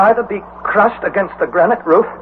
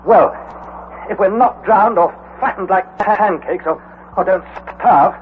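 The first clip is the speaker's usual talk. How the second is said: bitter, sarcastic complaint; 4 semitones higher than usual. Acted. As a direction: spit out the dark joke with bitterness. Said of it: "I said bitterly".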